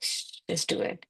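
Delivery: whispered shh, just do it; hushing whisper. Retold or imitated. Inner voice whispering her doubts away. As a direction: hush her and nudge in a whisper.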